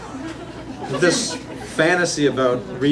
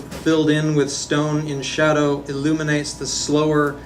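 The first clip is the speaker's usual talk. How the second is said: measured, even poem-reading voice; poetry reading. Acted. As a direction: recite it phrase by phrase, carefully projected. Reads own poem aloud.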